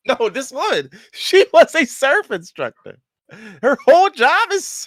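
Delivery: high, loud, drawn-out disbelief; incredulous exclamation. Real, not acted. Telling friends the ex surfed for a living, incredulous. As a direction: pitch it way up, stressing each word in outrage. Exclaiming over the absurd surfing ban.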